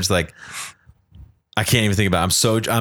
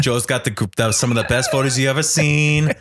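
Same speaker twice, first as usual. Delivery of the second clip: Donald Trump impression. Host praising friend's photos in a light Trump voice. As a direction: brag like Trump in a mild put-on voice. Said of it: "It's a bad impression".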